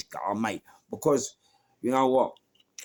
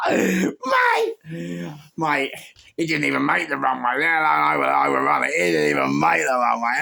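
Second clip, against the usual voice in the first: loud, high, laughing delivery; real hilarity; excited shouting; 8 semitones higher, 9 dB louder than usual. Real, not acted. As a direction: shout the punchline through the giggles. Laughing over the joke.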